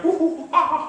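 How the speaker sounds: high laughing chimp hoot; friendly chimp hoot. Shown as a demonstration. Lecturer imitating chimps hooting with relatives. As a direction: hoot like a chimp among family.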